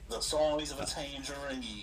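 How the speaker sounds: slow, stretched Australian vowels; Australian accent. Shown as a demonstration. Demonstrating an easy accent, slow Australian accent. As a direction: draw out the Aussie accent. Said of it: "I can do an Australian accent".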